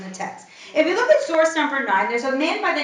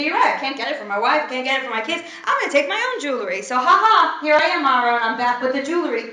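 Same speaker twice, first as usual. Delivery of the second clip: fast, pleased, a bit louder; smug eager men; 3 dB louder, faster than usual. Pretend. Men bragging to Aaron they brought jewelry, fast and smug. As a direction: rattle it off like proud men showing off.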